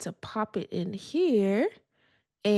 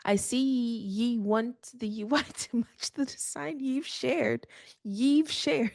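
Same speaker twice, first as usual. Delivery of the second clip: pirate voice; 3 semitones higher, slower than usual. Retold or imitated. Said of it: "it is talking like a pirate".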